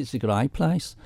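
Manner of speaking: lightly imitated Liverpool accent. A musician praising the island to an interviewer, Liverpool accent. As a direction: quote him with a touch of Liverpool accent. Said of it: "in his Liverpool accent".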